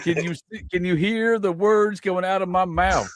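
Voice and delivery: high-pitched exasperated retort. Retold or imitated. Telling a clueless man at self-checkout, exasperated.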